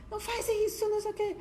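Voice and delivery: high-pitched scolding, like a cross dad; mock angry parent. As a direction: imitate the father telling the child off, pitched far up. Parents angry in children's play.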